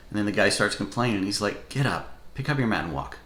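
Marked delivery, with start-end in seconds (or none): 1.7-3.2 a mild mock of a curt order: "Get up, pick up your mat and walk"; short and irritated. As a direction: toss off "walk" as a terse command, understated. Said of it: "almost like he's short".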